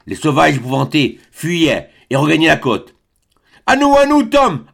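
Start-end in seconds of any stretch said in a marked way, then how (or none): 3.7-4.7 ringing voice. A narrator's reading. John calling to Tom for rescue, high ringing shout. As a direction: call for rescue at full voice. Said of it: "d'une voix éclatante".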